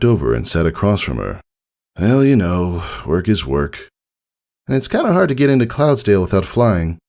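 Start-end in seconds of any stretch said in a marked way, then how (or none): 2.0-7.0 put-on a higher young filly voice, trailing into regret; a kid blurting something she regrets; lightly voiced filly. A narrator's reading. Filly telling her dad about Cloudsdale, lightly voiced and wistful.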